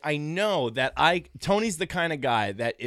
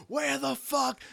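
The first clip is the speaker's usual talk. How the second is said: much higher exasperated shout; angry yell; 12 semitones higher, slower than usual. Retold or imitated. Tony shouting at his friend stuck at LaGuardia. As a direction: snap it, losing patience. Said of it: "I've never heard him like this".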